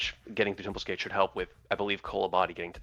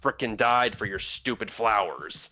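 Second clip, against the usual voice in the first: snide, slightly raised comeback; sarcastic retort; 3 semitones higher than usual. Acted. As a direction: snap back with mock politeness. Player snaps back at the boss.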